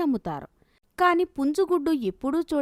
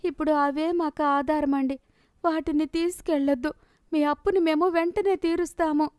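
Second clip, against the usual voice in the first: lightly voiced plea, pitched up; a touch of begging, higher than the narration; pleading debtor; 5 semitones higher than usual. Villager begging lenders to leave the hens, pleading.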